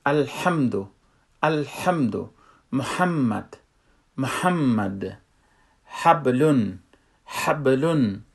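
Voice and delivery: "الحمدو", "محمد", "حبلون" with a tight mid-throat h; choked throat h. Shown as a demonstration. Teacher giving examples, choked h in "الحمدو", "محمد", "حبلون".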